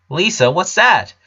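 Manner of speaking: alarmed big brother asking; worried. A narrator's reading. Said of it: "Lincoln worriedly asked".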